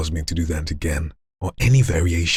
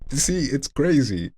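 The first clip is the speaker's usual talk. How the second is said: higher, drawn-out falling tune; voice shifting after ingressive; 8 semitones higher, slower than usual. Shown as a demonstration. Trying to speak after inward phonation, high and slow. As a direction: start high and stretch the words. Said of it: "and then trying to speak".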